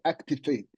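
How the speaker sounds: "activate" set apart, followed by a long pause; lightly emphasize the word "activate", then stop; deliberate weight on "activate"; stress on activate. Real, not acted. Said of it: "I'm emphasizing the word activate".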